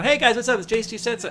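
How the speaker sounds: high, bright upbeat channel greeting; show host intro. Retold or imitated. Host opens his show after a tantrum, cheerful presenter voice. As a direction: switch on the presenter voice. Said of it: "it's like Bill O'Reilly".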